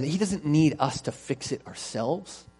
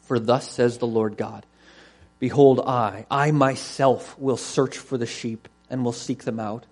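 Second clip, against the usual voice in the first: measured, solemn reading aloud; deliberate Bible reading to a congregation; scripture reading. Acted. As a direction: read it as God's declaration, leaning on key words.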